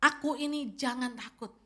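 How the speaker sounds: lightly voiced, steady and soothing; a hint of Jesus calming them; calm reassurance. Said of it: "Yesus segera mengatakan".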